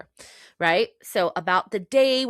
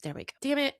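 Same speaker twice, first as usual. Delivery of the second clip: crying again; 7 semitones higher, faster than usual. Real, not acted. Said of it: "where I wasn't crying".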